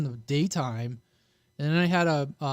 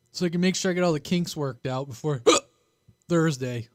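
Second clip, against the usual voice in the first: hiccups. Real, not acted. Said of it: "Oh man, the hiccups".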